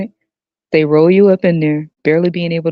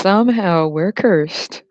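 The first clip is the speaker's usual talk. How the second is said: slow, drawn-out mock lament; 2 semitones higher, much slower than usual. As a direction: draw each word out slowly. Mock complaint about being cursed.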